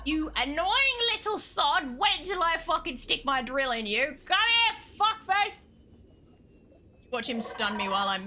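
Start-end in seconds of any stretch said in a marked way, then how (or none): 0.0-5.6 exasperated threat. Real, not acted. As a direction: rise into an angry, high "come here". Threatens game enemy.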